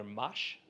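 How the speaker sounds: "Mosh" as one short syllable, for Moshe; mispronounced name. Retold or imitated. Americans calling the speaker by name, mispronounced. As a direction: say "Mosh", with no second vowel. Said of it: "everybody kept mispronouncing my name".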